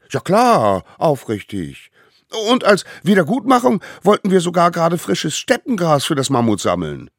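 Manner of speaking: put-on high, loud, hurried child voice; eager little savages. A narrator's reading. Little culprits promise amends to the court, eagerly. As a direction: gush assurances in a small child's voice.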